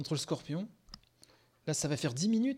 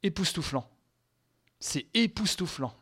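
awestruck joy; 4 semitones higher, 3 dB louder than usual. Real, not acted. Fan just out of the trailer, awestruck. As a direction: let real wonder lift and stretch it. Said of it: "je suis en larmes de joie".

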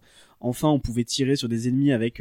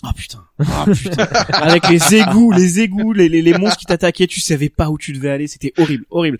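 excited; 5 semitones higher, 10 dB louder than usual. Real, not acted. Horrified memory of sewer level.

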